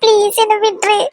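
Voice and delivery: begging through tears; tearful plea. Acted. Woman begging Karthi to release her, crying. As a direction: cry as you ask for release. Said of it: "இப்படி அழுதுகிட்டே இருந்தா".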